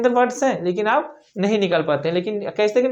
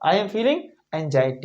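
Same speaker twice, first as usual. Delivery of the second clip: slow model sentence; 5 semitones lower, much slower than usual. Shown as a demonstration. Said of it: "क्या बोलेंगे?".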